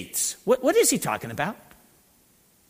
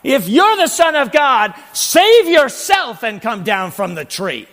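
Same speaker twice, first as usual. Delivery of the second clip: mocking crowd shout; 7 semitones higher, 6 dB louder than usual. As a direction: taunt him like the mob at the cross. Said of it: "we're shouting".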